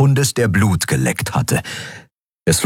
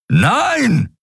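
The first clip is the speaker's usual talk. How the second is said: high, sharp cry of no. A narrator's reading. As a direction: call out in alarm. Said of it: "rief Keru". (hoher Ausruf)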